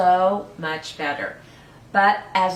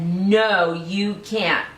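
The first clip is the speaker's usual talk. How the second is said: firm grandma, a touch louder; grandma saying no; 4 dB louder, much slower than usual. Acted. Grandma refusing the boy, firm and a bit louder. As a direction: put your foot down as grandma.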